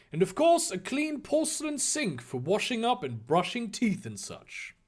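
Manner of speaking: measured, lifted storybook narrator; theatrical storytelling; story narration. A narrator's reading. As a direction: read the scene out with deliberate relish.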